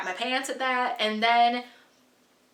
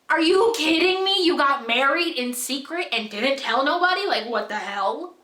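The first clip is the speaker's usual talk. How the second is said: incredulous outrage; 3 semitones higher, 3 dB louder than usual. Retold or imitated. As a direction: call them out in mock outrage. Outraged at secret marriage.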